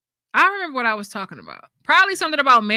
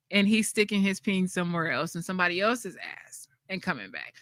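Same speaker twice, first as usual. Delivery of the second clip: whispered aside; 3 semitones lower, 7 dB quieter than usual. Real, not acted. Sharing a scandalous theory with chat, whispered. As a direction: whisper it like gossip.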